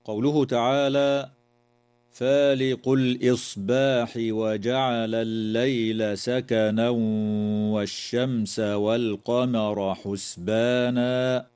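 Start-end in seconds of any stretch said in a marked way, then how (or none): 2.1-11.5 slow measured recitation; Quran recitation. Shown as a demonstration. Teacher recites the verse before explaining the rules, slow recitation. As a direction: recite steadily with tajweed.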